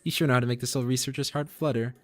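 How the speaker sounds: put-on high, bubbly girl-genius voice; eccentric researcher. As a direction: play the giddy old scientist in a young body. Voices Purah's dialogue.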